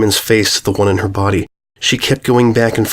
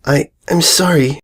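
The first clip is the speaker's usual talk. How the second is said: flustered; 5 semitones higher than usual. Acted. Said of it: "blurted out".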